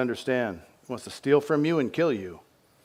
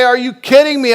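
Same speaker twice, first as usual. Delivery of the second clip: mock disbelief; 13 semitones higher, 15 dB louder than usual. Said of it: "I say".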